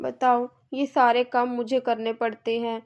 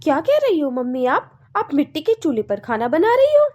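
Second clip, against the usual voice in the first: shocked disbelief; 2 semitones higher, 4 dB louder than usual. Acted. Son finds mother at clay stove.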